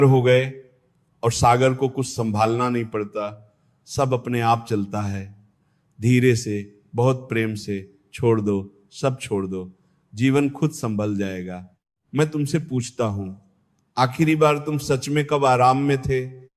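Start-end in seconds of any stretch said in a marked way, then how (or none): 6.0-11.7 low, gentle, softening voice; tender reassurance. Real, not acted. Gently urging listeners to let go.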